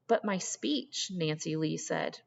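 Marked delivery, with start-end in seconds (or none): 0.1-1.1 choked up. Acted. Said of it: "the words stuck in her throat".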